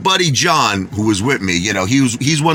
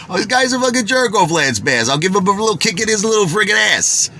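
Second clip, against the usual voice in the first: high-pitched, hammed-up tough-guy indignation; mock outrage; 7 semitones higher than usual. The speaker siding with Rich against Lance, mock outrage. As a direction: act riled up, pitch climbing.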